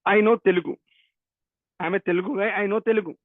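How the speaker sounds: ordinary delivery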